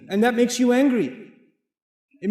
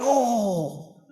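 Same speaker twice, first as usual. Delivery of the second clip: imitated groan on waking; mock winded "oh"; pained "oh"; 3 semitones higher than usual. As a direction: groan as if just kicked. Imitates waking up kicked in stomach.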